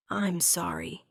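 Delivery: almost soundless apology; mouthed silently. A narrator's reading. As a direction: Marcus mouthing to his mate. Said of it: "he mouthed silently".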